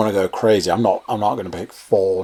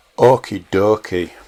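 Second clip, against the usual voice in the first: Hull accent. Replying briefly to another speaker's betting tip: perfect Hull accent. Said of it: "that was said with a perfect Hull accent".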